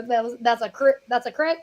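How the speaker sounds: crick for creek; crick, rhyming with stick; saying crick. Shown as a demonstration. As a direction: crick said the Pennsylvania way, not creek. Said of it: "Kathryn Hahn said crick".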